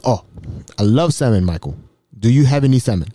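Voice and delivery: measured, lightly imitated African accent; touch of a formal African voice. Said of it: "Mbutu was an African".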